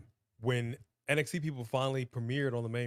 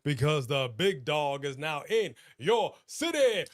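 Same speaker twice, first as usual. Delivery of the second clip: ring announcer; 4 dB louder than usual. Acted. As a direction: introduce him like a wrestling announcer. Hyping a guest like ring announcer.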